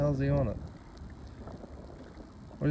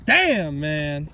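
real exclamation; 2 semitones higher, 5 dB louder than usual. Real, not acted. Fisherman reacting after the big fish gets away, loud stunned burst. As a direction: blurt it out, stunned.

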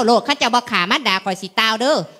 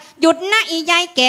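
mock bandit's challenge, pitched up; 4 semitones higher than usual. Shown as a demonstration. Wife coaching husband to waylay his mother, mock bandit. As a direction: act out a robber halting an old woman. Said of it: "เสียงมหาโจร".

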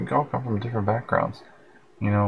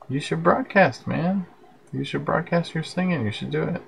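much higher, eager encouragement; excited; 7 semitones higher than usual. Real, not acted. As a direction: cheer them on brightly. Urging a viewer to sing.

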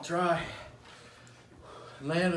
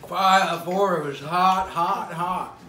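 loud, slow pained complaint; 8 dB louder, much slower than usual. Real, not acted. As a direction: blurt it out loud in pain. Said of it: "My mouth is on fire".

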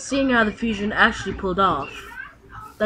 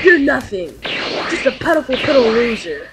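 taunting; 2 semitones higher, 5 dB louder than usual. Acted. Fused fighter mocking the trainer, loud sneer. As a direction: look down on him and gloat.

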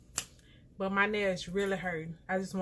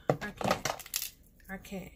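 exasperated; 3 dB quieter than usual. Real, not acted. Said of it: "I'm so frustrated right now".

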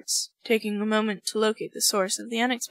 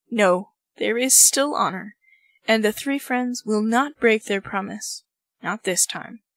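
firm anger; 4 dB louder than usual. Acted. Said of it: "with sudden fury".

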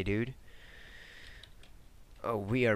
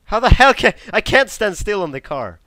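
much higher and louder exasperation; frustrated outburst; 10 semitones higher, 12 dB louder than usual. Real, not acted. Gamer yelling because he slides off the car. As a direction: shout at the game.

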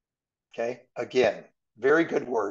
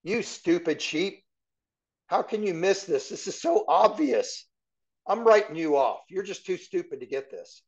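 higher, exasperated scolding voice; a hint of an impatient teacher; mock harsh scolding; 4 semitones higher than usual. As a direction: pretend to scold dim sheep. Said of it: "Did he say".

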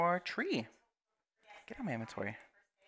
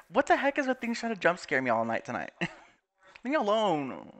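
scared horror game streamer; 8 semitones higher than usual. Real, not acted. Laughs after being jump scared.

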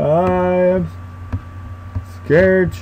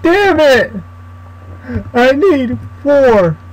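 frustrated outburst; 8 semitones higher, slower than usual. Real, not acted. Frustrated at missing ingredient.

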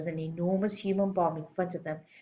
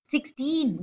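high, eager schoolboy answer; foolish abandon; 8 semitones higher than usual. A narrator's reading. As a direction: blurt it out with careless confidence. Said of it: "answered with foolish abandon".

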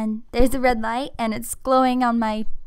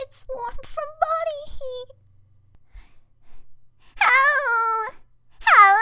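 put-on high cute anime girl; 8 semitones higher than usual. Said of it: "that was all my voice acting".

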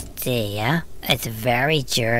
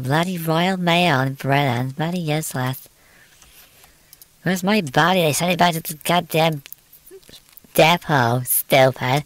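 mock angry rant; 3 semitones higher, 4 dB louder than usual. Real, not acted. Ranting about the postal service.

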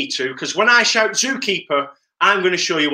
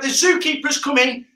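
shout; 6 semitones higher than usual. Shown as a demonstration. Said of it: "And when I shout".

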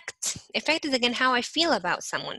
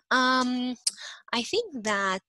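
drawn-out UM, then tentative words; thinking aloud; 3 semitones higher, slower than usual. Shown as a demonstration. Teacher demonstrating a filler when thinking, hesitant. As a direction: hesitate as if searching for the thought. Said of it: "when you're thinking".

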